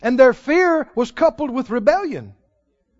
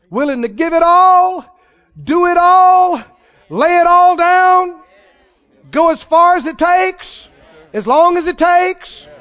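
louder, slowed, stretched; fervent preaching; 7 semitones higher, 6 dB louder than usual. Real, not acted. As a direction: preach it with building fire. Preaching climax.

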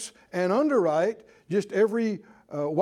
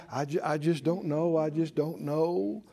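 near tears; 5 semitones lower, 4 dB quieter than usual. Retold or imitated. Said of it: "they're on the verge of tears".

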